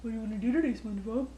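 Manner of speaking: Patrick Star voice. Pretend. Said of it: "Patrick, the star".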